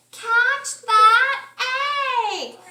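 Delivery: high, loud urgent yell; yelling to Pig. A narrator's reading. Animals yell to Pig to catch the flying egg. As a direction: shout it out to Pig. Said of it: "they yelled to Pig".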